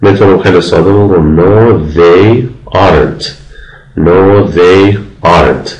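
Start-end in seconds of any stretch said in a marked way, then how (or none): 1.4-3.2 "aren't" joined from are and not, said slowly; slow demo of "aren't" after a separate "they"; contracted aren't. Shown as a demonstration. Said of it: "به کلمهٔ ما بعد یا که not باشه بچسبونم". 4.0-5.7 "aren't" joined from are and not, said slowly; slow demo of "aren't" after a separate "they"; contracted aren't. Shown as a demonstration. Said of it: "به کلمهٔ ما بعد یا که not باشه بچسبونم".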